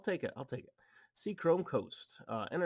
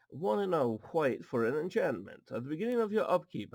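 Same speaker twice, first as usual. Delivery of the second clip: odd put-on reading voice; 2 semitones higher, 4 dB louder than usual. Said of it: "I don't know why I'm talking like this".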